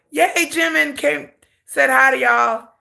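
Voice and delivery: high, slow mock-cheerful yay; sarcastic cheer. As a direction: fake delight through salt. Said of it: "I'm salty".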